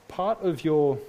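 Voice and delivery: "part" hit a touch harder; stress on part. Shown as a demonstration. Pastor stressing to the congregation that maturity is only "part". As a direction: lean on "part" so it stands out. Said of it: "I emphasize the word part".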